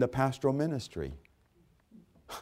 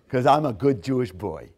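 mocking laugh. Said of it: "listen to this prejudice".

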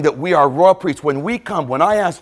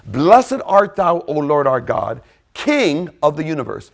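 prayer translation. Shown as a demonstration. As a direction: intone it like a blessing. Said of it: "every Jewish prayer begins like this".

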